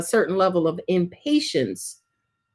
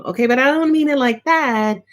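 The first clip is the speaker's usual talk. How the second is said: mock client protest; 3 semitones higher than usual. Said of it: "go ahead and say to me".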